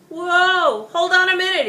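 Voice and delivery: loud, high shout to stop everything; an angry father storming up to stop it; yelled. Acted. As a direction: yell to halt the crowd. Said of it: "he yelled".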